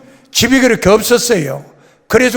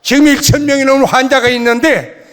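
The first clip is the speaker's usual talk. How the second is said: louder, indignant retort; retold shout; 3 semitones higher, 3 dB louder than usual. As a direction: reenact yelling back at the accuser. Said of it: "그러고 소리를 질렀어요".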